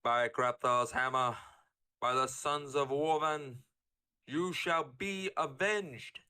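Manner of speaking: slow, measured pledge rising in pitch; solemn movie vow. Acted. Swearing vengeance by the hammer, slow solemn vow. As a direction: draw out each phrase solemnly. Opening film quotes, acted.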